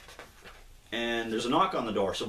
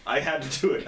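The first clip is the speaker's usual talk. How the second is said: I had to do it said voiced and a bit higher; voiced line; 4 semitones higher, faster than usual. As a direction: give I had to do it in an acted voice. Repeats the line twice.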